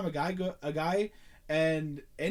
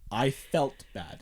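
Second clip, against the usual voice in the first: 1 mocking her words; 3 semitones lower, much slower than usual. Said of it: "Notice how she said".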